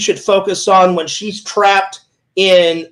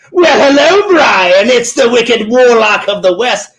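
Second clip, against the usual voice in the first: Wicked Warlock voice. Pretend. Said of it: "That's exactly how I do it".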